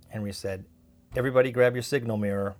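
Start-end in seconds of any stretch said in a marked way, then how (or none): 1.1-2.5 loud order to the whole group; firm, raised-voice rallying order; urgent command. A narrator's reading. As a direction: call out instructions as danger nears.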